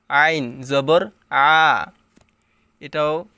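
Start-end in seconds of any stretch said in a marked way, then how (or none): 0.1-1.9 আইন জবর আ pressed from mid-throat, slow; throaty ain. Shown as a demonstration. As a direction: squeeze আ in the throat. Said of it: "হলকের মধ্যখান হইতে উচ্চারণ করতে হবে।".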